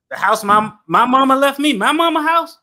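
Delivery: loud, high, rising disbelief; indignant outburst. Acted. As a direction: build to an outraged, high-pitched question. Imagines squatters in inherited house.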